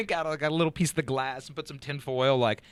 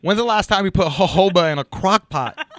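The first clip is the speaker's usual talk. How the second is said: mock instructor; 6 semitones higher, 9 dB louder than usual.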